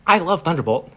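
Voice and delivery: high, loud cartoon voice; dog character voice. A narrator's reading. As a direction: burst out as an eager cartoon character. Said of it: "Sarge, voiced by Allison Jeffers".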